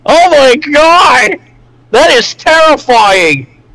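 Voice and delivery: high, slow horrified gasp of a line; spooked and drawn-out oh my god; scared exclamation. Real, not acted. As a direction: stretch it out high in real fright. Reacting to creepy horror image.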